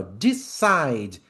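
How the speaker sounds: "Decide" as de-CIDE, falling; two syllables. Shown as a demonstration. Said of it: "Tem duas sílabas em decide".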